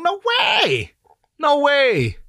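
high disbelieving exclamation; emphatic denial. Real, not acted. Emphatic denial about Cream.

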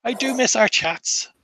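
polite, halting, lightly voiced caretaker; rambling graveyard caretaker. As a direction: reminisce wistfully, then excuse yourself politely. Game master voices the caretaker.

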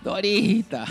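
high, loud call down the corridor; imitated shouting. Hospital patient calls out for someone, imitated yelling. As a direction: holler the name like a woman calling out. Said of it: "una señora que está gritando".

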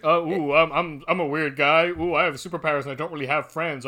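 mocking Flash as a quirky loner; mock quirky guy. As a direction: act like an awkward quirky hero. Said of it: "look at me, I'm quirky".

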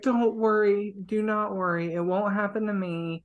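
high-pitched, anxious-to-soothe reassurance; urgent reassurance. Acted. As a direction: rush to calm a crying girl. Cecily hurriedly soothes the crying girl.

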